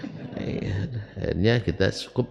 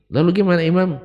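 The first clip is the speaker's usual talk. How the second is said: questioner's voice; 10 semitones higher, 7 dB louder, faster than usual. Retold or imitated. Voicing a questioner in sermon.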